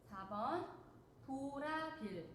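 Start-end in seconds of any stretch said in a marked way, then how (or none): 1.2-2.3 backwards speech. Shown as a demonstration. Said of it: "문제의 답이 거꾸로 나와 있습니다".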